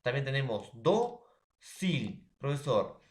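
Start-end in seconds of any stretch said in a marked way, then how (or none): 0.7-2.3 "do, sil" as two separate syllables; dócil broken in two, weight on the DO; stress on first syllable. Shown as a demonstration. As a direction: hit DO, pause, then SIL. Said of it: "penúltima".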